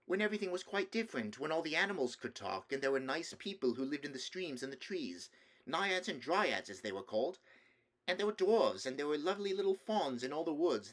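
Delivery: put-on small boy carried away by a tale; eager little boy. Nephew telling uncle of talking animals, eager little boy. Boy figure describes old days.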